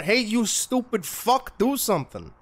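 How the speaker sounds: loud, high Upper Midwest taunt; ghost hunter accent. Pretend. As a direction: goad the ghost in a mock North Dakotan accent. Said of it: "my ghost hunter accent is kinda like North Dakotan or Wisconsin".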